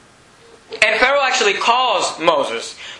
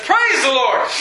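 excited praise; 4 semitones higher, slower than usual. Acted. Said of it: "Moses is excited".

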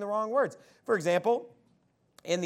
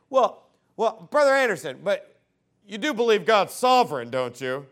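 imitating opponent; 6 dB louder than usual. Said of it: "here's what they'll say".

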